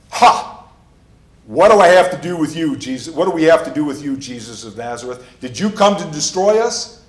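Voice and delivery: hammed-up terrified outcry, loud and high; shriek of terror. Preacher acting the demon facing his mortal enemy, terrified cry. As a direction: act out a loud, panicked challenge. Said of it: "So he shrieks in terror".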